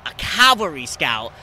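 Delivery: slow, proud delivery of the title; cool-sounding title. Retold or imitated. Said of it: "sounded cool".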